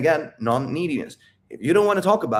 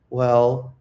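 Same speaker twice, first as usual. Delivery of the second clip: hesitant opening up; 3 dB louder than usual. Shown as a demonstration. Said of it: "Do you hear that in my tonality?".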